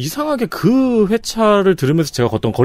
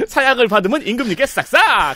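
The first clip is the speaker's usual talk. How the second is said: laughing; 10 semitones higher than usual. Shown as a demonstration. Joking twist, laughing.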